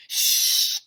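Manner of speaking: sharp whispered shush. A narrator's reading. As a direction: hush them in a whisper. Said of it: "whispered Mister Klutz".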